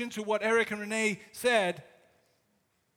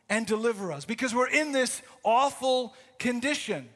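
louder, urgent pleading; desperate prayer; 2 semitones higher, 4 dB louder than usual. Acted. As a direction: beg for rescue with rising urgency. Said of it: "that desperate prayer".

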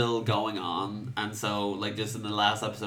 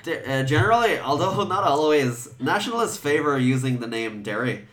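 light Northern Irish accent; 3 semitones higher, 4 dB louder than usual. Shown as a demonstration. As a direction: read it in a Derry lilt. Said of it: "I'm gonna try and say it in an Northern Irish accent".

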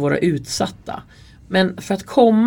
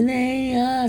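retold scream; 7 semitones higher than usual. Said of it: "ungdomar och skriker".

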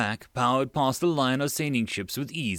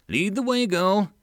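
sultry command; 8 semitones higher, 4 dB louder than usual. Acted. Megan teasing command.

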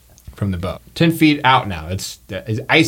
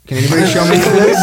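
louder, fast repeat; 5 semitones higher, 4 dB louder, much faster than usual. Acted.

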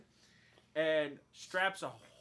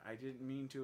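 soft, low, slow mock apology; retold hushed apology; 4 semitones lower, 8 dB quieter than usual. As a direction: murmur it like a reluctant confession. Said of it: "he whispers it into her ear".

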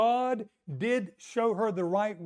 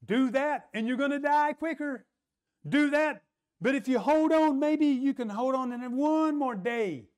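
fear voiced a little higher, coaxing; 5 semitones higher than usual. Preacher voicing fear tempting the widow, lightly voiced coaxing. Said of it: "Fear will say".

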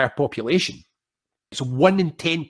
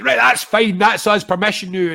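mock-relieved, much higher and louder cheer; relieved go-ahead; 8 semitones higher, 7 dB louder than usual. Wedding guest cheering once someone else dances second, loud relieved mock cheer. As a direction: play the guest who finally has permission to dance.

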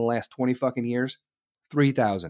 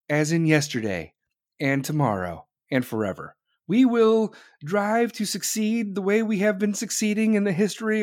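mocking Kamala Harris. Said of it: "she just speaks in weird sentences like".

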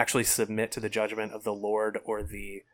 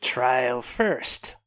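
Southern drawl; 2 semitones higher, 3 dB louder than usual. Acted. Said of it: "drawled Sir Lynn Corbray".

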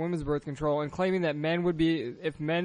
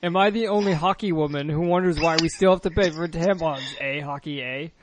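put-on Canadian accent. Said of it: "I'm just gonna add the word hockey randomly".

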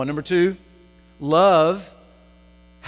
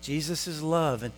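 soft, slow motherly teaching; gentle mother; 4 dB quieter, slower than usual. Retold or imitated. Mother teaching two boys to share, gently and slowly. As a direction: teach children gently, taking your time.

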